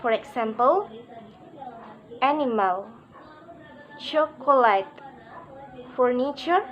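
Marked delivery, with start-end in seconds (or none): 2.2-6.6 animal, chocolate, furniture, each stressed on the first syllable only. Shown as a demonstration. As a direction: hit the start of animal, chocolate and furniture, leave the rest unstressed. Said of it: "primary stress is on the first syllable".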